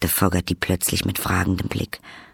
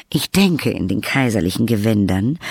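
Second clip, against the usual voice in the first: sanftmütige Madame Carduy. Acted. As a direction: coax mildly, with a lilting rise at the end. Narrator voices Madame Carduy. (sanftmütige Dame, leicht angedeutet)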